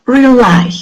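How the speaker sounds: "rely" with a strong, falling LY; stress on second syllable. Shown as a demonstration. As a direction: model "rely" for learners, weight on the second syllable. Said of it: "The stress is on the second syllable".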